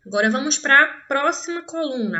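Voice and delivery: ordinary delivery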